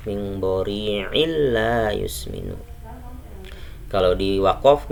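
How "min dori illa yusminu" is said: drawn-out tajweed chant of the verse; slow Quran recitation. Shown as a demonstration. Teacher reciting a verse for students, slow and measured. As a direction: recite slowly, stretching illa. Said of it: "Seperti itu bacanya".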